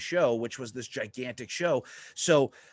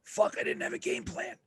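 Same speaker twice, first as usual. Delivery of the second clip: panicked thought; 5 dB quieter than usual. Retold or imitated.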